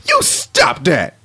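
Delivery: slow, drawn-out comic protest; hammed-up overexcited reaction; Hungry Dude. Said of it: "now Hungry Dude is".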